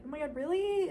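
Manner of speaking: imitating a surprised daughter. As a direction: act out a pleasantly surprised reply. Acted surprised reply to parents.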